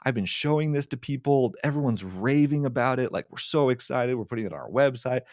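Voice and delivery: high, excited retelling of the client raving; imitating the VP's excitement, high and eager; gushing client. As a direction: gush like a thrilled boss. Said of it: "was like".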